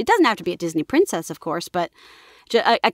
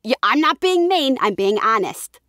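put-on New York accent; 3 semitones higher than usual. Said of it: "but New York, you can be like".

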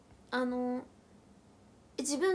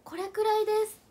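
retold stage answer; 7 semitones higher, 8 dB louder than usual. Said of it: "って聞かれたからさ".

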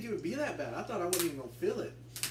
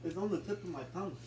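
mouth burning from spicy food. Real, not acted. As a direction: talk through burning heat. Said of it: "my mouth is burning".

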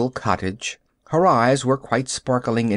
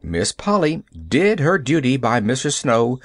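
ordinary delivery, nothing marked

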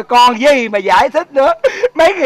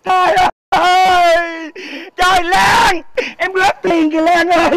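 mock anguished cry; 4 semitones higher than usual. Comic grief over Lan.

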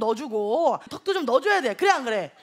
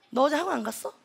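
imitating a mother scolding, mildly exasperated; mock motherly nagging, building a little; 혼내는 엄마; 2 semitones lower than usual. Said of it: "혼내기 시작합니다". (딸을 혼내는 엄마 흉내, 지겹다는 듯이)

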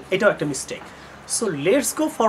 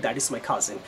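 soft correct version; 7 semitones lower, 7 dB quieter, slower than usual. Shown as a demonstration. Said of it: "শুধু normally বলবেন".

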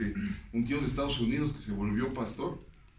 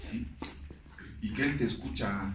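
ordinary talk

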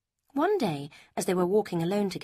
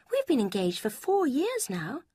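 a higher, lighter voice for Lucy; Lucy, higher voiced; 8 semitones higher, 3 dB louder than usual. A narrator's reading. Lucy quizzing Eleanor about Mrs Ferrars, higher voice. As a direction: lift the pitch for the young woman Lucy.

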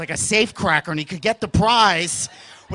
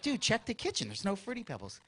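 put-on very soft, secretive kid voice; hushed whisper; 14 dB quieter than usual. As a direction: keep it down so Mom won't hear. Hushed kids arguing.

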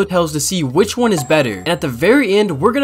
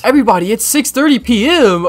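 raised, higher-pitched call to everyone; mock announcement; 6 semitones higher, 4 dB louder than usual. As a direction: imitate someone announcing playtime. Quoted announcement to everyone at playtime.

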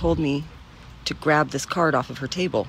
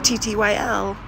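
higher, louder sign-off; cheery sign-off; 8 semitones higher, 6 dB louder, slower than usual. Real, not acted. Signing off to her viewers, a bright louder goodbye. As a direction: sing out a goodbye. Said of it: "sign-off".

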